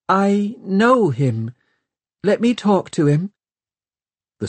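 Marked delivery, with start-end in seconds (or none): 0.1-3.3 higher, thin and strange; a girl suddenly sounding not herself. A narrator's reading. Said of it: "in a strange, thin voice".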